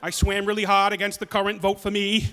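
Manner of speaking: put-on New England politician's accent; Kennedy. Politician excusing himself to voters, New England accent. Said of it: "Just a ni-, nice Kennedy".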